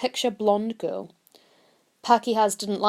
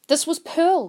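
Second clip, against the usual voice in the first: higher, insistent stress on Pearl; emphatic; 8 semitones higher, 3 dB louder than usual. A narrator's reading. Queenie insisting to the policeman, emphatic. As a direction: land hard on "Pearl" as if it settles everything. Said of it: "Queenie said again emphatically".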